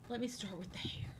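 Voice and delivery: breathy whispered repeat. Pretend. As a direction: whisper it close to the mic.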